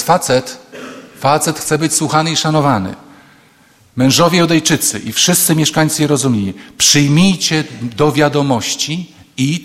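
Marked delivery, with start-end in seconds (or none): 4.0-9.6 solemn reading. Shown as a demonstration. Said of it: "czytam, cytuję".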